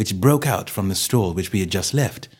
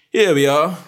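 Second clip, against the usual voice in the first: louder, higher cheery greeting; cheerily; 7 semitones higher, 6 dB louder than usual. Acted. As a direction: welcome them in brightly. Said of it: "said Holmes cheerily".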